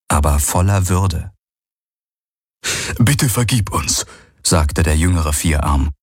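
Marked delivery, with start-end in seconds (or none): 3.0-4.0 put-on timid young servant. Young four-armed servant speaks.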